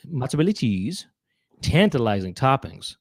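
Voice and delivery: lightly voiced comedian's sales pitch; Tommy Davidson. Comedian selling you the P-Zone, lightly voiced salesman impression. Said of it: "That's my impression of Tommy Davidson".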